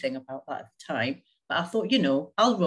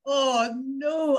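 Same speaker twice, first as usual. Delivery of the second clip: higher, a laughing cry; laughing mock despair; 8 semitones higher, 3 dB louder than usual. Mock despair to her friend, laughing. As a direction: whimper it through a laugh.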